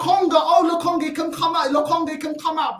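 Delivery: mocking fans. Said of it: "I mean".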